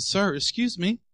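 mock-gentle courtesy; gentle, polite. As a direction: softly get a stranger's attention. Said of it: "I just gently turned around and said".

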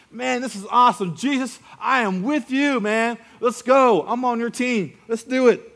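high, loud, eager follower gushing; a fan who can't wait to join in; eager blurting. Acted. Disciple blurting to Jesus, eager and loud. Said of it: "He blurts out".

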